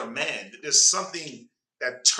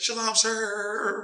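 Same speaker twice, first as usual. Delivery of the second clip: put-on meek, soft, cracking voice, pitched higher; 6 semitones higher than usual. Imitating a meek woman greeting a man: imitating a cracking soft voice. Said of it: "You can hear the crack in her voice".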